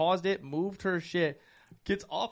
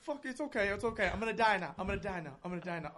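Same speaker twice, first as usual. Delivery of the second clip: high voice growing softer; dying character fading out; 3 semitones higher, 5 dB quieter than usual. Retold or imitated. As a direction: let it fade as he dies.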